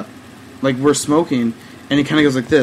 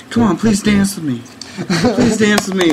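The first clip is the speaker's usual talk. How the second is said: higher, lightly pleading effeminate imitation; 4 semitones higher than usual. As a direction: imitate an effeminate man coaxing for a dance. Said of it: "like, effeminate voice".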